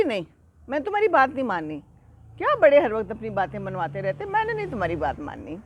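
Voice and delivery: mock angry refusal. Younger goat refuses the bossy older one, mock angry. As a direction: play a little goat digging in, mildly annoyed. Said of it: "چھوٹے کو بھی غصہ آ گیا".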